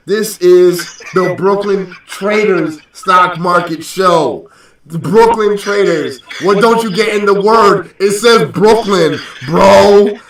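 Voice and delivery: slow, drawn-out emphatic explaining; hammed-up disbelief, leaning on each key word; mock exasperation. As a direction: spell it out as if they just don't get it. Mock-lecturing viewers on the show's name.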